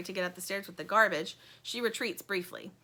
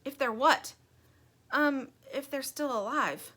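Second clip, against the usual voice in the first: a nervous, halting whisper of dread; lightly voiced worried toy; worried Plastic; 5 semitones higher than usual.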